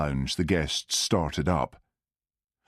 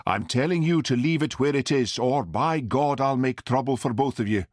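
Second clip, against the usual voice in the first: raised, slowed angry warning; angry threat; 7 semitones higher than usual. Acted. Angry doctor threatens Hamish.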